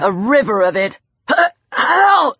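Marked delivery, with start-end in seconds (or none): 1.8-2.3 high pained cry through blood; gargled cry. A narrator's reading. Lang cries out under Peter's blow, gargled. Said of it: "Lang gargled".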